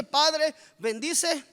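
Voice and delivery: mock grace. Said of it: "Y en la noche".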